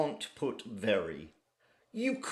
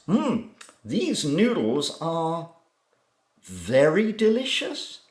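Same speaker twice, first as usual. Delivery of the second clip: imitating a student; 5 semitones higher, 6 dB louder than usual. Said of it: "most common mistake made by Chinese students".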